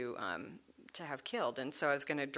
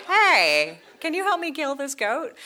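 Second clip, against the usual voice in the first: mock loud request; 10 semitones higher, 11 dB louder than usual. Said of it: "and you're like".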